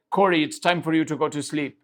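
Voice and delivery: a hint of a strict guide, barely changed from own voice; Jonas voice. Guide Jonas orders Corey to bed: mild stern imitation. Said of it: "that's my Jonas voice".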